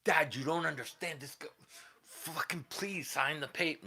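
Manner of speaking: high whiny plea to dad; pleading teen. Retold or imitated. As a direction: beg like a bratty kid. Teen begging dad for signature.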